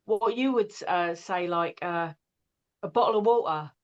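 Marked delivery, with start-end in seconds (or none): 2.8-3.7 London accent as on EastEnders. Shown as a demonstration. Showing what Americans imitate, in an EastEnders London accent. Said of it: "they talk like EastEnders".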